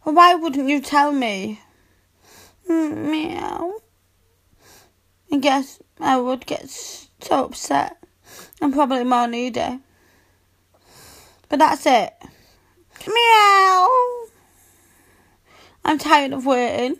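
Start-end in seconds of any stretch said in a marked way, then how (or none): 2.7-3.7 soft meow. Acted. Cat girl purring meow. 13.1-13.9 higher, louder demanding meow; insistent meow. Acted. Cat girl meowing insistently.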